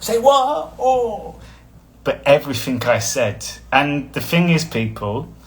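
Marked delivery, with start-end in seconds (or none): 0.0-1.4 squeaky high astonished voice; mock disbelief. Someone reacting in disbelief, high squeak. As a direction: act shocked. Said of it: "and they're like".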